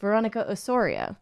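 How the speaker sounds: "Osorio" with a round o, oh-SOR-ee-oh; Canadian pronunciation. Shown as a demonstration. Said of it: "if a Canadian pronounced name".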